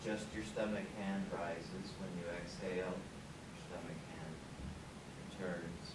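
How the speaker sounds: soft, low, unhurried breathing guidance; guided relaxation. Acted. Leads a relaxation breathing exercise.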